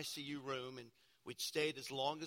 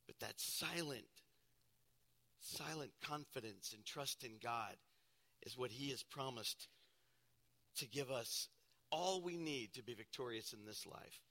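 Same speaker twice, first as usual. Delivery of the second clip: hushed; 4 semitones lower, 6 dB quieter than usual. Acted. Speaks of silent confidence.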